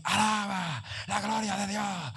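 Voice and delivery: solemn divine voice. Retold or imitated. God's voice retold.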